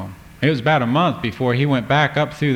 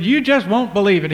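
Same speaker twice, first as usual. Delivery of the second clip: high eager telling; excited; 9 semitones higher, 4 dB louder than usual. Acted. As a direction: still bubbling over with news. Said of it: "he got excited".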